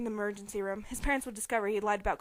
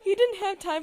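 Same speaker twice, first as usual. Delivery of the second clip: louder, slowed, giggling; laughing while reading; 7 semitones higher, 13 dB louder, slower than usual. Real, not acted. Reader giggling after friend's baseball jab. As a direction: finish the line through laughter.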